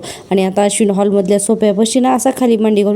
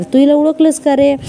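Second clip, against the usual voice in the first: mocking taunt; 5 semitones higher than usual. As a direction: needle her, gloating. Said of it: "Nagraj मुद्दामून आता या प्रियाला खिजवत असतो". (कैदी मुलीला टोमणे मारत चेष्टेचा स्वर)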